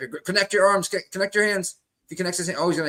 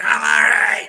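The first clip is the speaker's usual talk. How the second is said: whispered quote; 10 semitones lower, 4 dB louder, slower than usual. Retold or imitated. Quoting hurt fighter, whispered.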